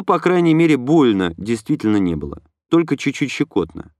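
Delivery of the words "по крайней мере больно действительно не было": ordinary delivery, nothing marked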